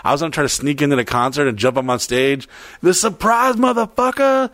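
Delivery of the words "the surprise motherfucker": high-pitched mock reveal; triumphant surprise. Jumping onstage to surprise the band, playful high triumphant cry. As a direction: announce yourself as if bursting onstage.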